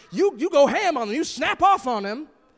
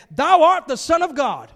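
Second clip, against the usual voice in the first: a louder, slowed read of the devils' cry; spirits crying out; 4 semitones higher, 7 dB louder than usual. A narrator's reading. Preacher reading unclean spirits crying before Jesus, louder and slowed. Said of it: "fell down before him and cried".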